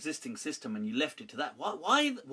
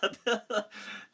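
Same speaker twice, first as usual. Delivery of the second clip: laughing; 2 semitones higher than usual. Real, not acted. Laughing at own slogan.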